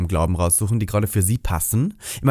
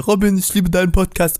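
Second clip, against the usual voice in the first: high excited fan shout; fan calling out; 7 semitones higher than usual. Retold or imitated. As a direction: call out like a gushing fan. Fan shouting across at a fair.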